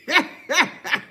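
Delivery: high chuckling burst; a run of quick high laughs; amused laugh. Real, not acted. Can't give them a piece of their mind, laughing. Laughs after holding back insult.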